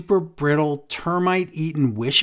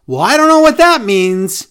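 baffled Reggie; 6 semitones higher, 8 dB louder than usual. Retold or imitated. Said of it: "And Reggie goes".

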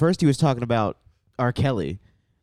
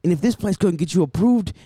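raised hip hop commercial pitch; imitated radio ad; 6 semitones higher than usual. Host quotes an insane radio ad, mock pitchman voice. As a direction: sell it like an over-the-top car ad. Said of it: "the one it's like".

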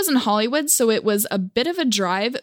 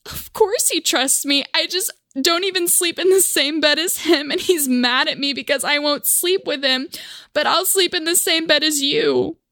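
a lightly raised put-on voice; mock indignant girl; 5 semitones higher than usual. To the man, feigning innocent offense. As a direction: act offended and naive. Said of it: "And I'm like".

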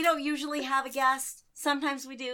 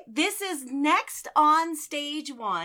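announcer; much slower than usual. Acted. Announcing the show title.

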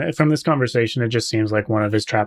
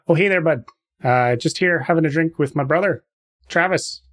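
nasal Canadian in character; lightly nasal Canadian buddy; Canadian accent; 4 semitones higher than usual. Acted. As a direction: chat like a Canadian hoser. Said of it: "Pull it more up into your nose".

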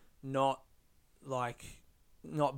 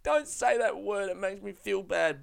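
mock upset complaint; 5 semitones higher than usual. Imagined viewer objecting to a word in the movie, mock upset. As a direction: imitate an easily upset viewer. Mimicking people who can't watch.

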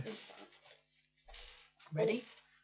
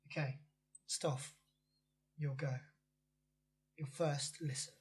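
whispering; 2 semitones lower, 4 dB quieter than usual. Real, not acted. Quiet cue while clip plays.

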